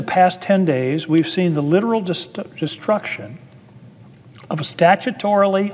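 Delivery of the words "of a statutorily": statutorily lifted high and leaned on; stress on statutorily. Real, not acted. Senator warning colleagues, stressing statutorily. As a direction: lean hard into statutorily to make the point. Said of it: "I emphasize that word".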